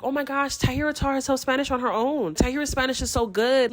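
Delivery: a light imitation of friends raving; gushing friends. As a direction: gush about her like an impressed friend. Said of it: "they'll walk around and be like".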